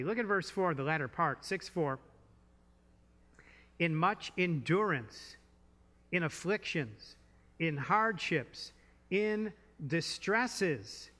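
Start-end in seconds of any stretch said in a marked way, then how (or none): 3.8-11.1 scripture reading. Shown as a demonstration. Preacher reading scripture aloud.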